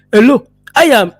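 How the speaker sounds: mock the fake Hollywood African accent; hammed-up generic African accent, slow and loud; fake movie African accent. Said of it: "this crazy African accent that no country has".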